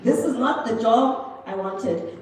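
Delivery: loud, slow, hammed-up complaint; exasperated. Agent hating the call center job, loud exasperated wail. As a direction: drag it out loudly, fed up.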